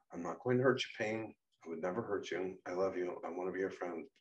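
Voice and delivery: soft, tender promise; gentle reassurance. Acted. Becca promises Payne she won't hurt him, tenderly.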